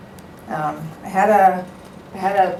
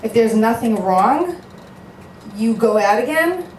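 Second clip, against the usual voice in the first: disbelieving echo, rising at the end; incredulous echo; 3 semitones higher than usual. Real, not acted. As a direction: repeat it as if it makes no sense. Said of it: "And what if you don't like him".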